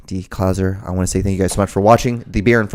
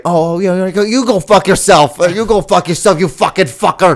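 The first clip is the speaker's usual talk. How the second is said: higher, louder cursing rant; mock angry caller; 8 semitones higher, 5 dB louder than usual. Scam caller curses back at him, angry and shouting. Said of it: "they're like".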